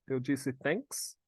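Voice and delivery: slow, drawn-out thanks; drawn-out teaching model; slow model line. Shown as a demonstration. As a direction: say it slowly for the class.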